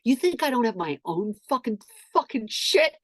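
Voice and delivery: staged indignant rant; acted outburst. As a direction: build to a high, loud finish. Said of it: "'Cause I'm a good actor".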